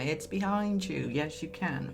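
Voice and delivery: panto audience shout-back, lightly hammed; pantomime voice. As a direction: play it like a panto heckle. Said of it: "I sound a bit like a pantomime now".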